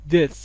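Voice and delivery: "this" with the vowel near "e", like "des"; نزدیک به ا. Shown as a demonstration. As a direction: open the vowel of "this" toward "e". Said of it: "نزدیک به". («this» نزدیک به «دِس»)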